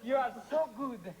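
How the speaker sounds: fawning pizza man in broken Italian English; Italian accent. Acted. Pizza man praising Miss Taylor, Italian accent. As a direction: flatter her with a hammy Italian accent. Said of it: "stop using that ridiculous Italian accent".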